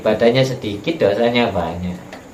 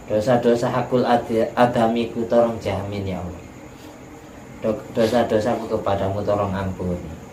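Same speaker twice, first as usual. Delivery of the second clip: tearful plea; 5 dB quieter than usual. Retold or imitated. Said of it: "orangnya nangis".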